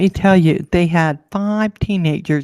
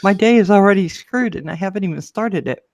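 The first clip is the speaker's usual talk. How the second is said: exasperated inner groan; 4 semitones higher than usual. Retold or imitated. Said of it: "I'm sitting there going".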